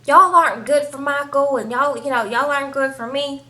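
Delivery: half-yelled, indignant retelling; mild mock yell. Woman telling off her boyfriend's friends, mild mock yell. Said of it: "proceeds to start yelling and stuff like".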